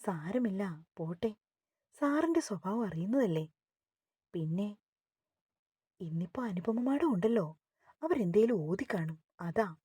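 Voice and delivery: a touch of soothing; consoling. Acted. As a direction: gently console an upset friend. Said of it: "സെറി അവളെ സമാധാനിപ്പിച്ചു".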